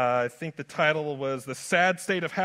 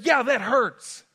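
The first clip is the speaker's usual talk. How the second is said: wry admission; 6 semitones higher, 7 dB louder, slower than usual. Pretend. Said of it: "have said".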